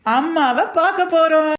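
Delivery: high, slow, stretched-out delight; excited. Acted. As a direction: sing it out with joy. Joyful news of mothers visiting. (உற்சாகமாக உயர்ந்த குரலில் இழுத்து)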